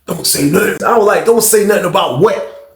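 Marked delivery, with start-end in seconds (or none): 0.1-0.8 understated, held-back request for secrecy; confiding warning. Retold or imitated. Roommate confides, asks secrecy. 1.2-2.7 higher, slow incredulous question; baffled echo question. Retold or imitated. Echoes roommate as baffled question.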